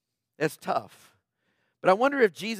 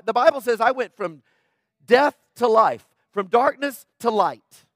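emphatic proclaiming; 2 semitones higher, 6 dB louder than usual. Real, not acted. Preacher proclaiming scripture.

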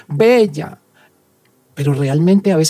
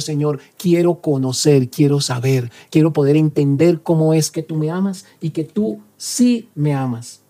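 spoken prayer. Acted. Prayer voiced for the listener.

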